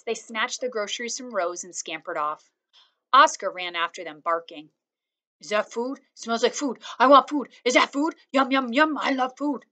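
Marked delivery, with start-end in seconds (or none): 5.4-9.6 eager, rising doggy voice; excited dog. A narrator's reading. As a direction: voice the hungry dog, bouncing. Dog Oscar barking his words.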